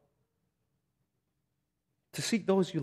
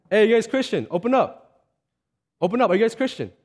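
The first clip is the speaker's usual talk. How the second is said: calling out boldly through a door; raised, insistent doorstep call; retold bold call to the people inside; 4 semitones higher than usual. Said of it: "Mike Long was just so bold".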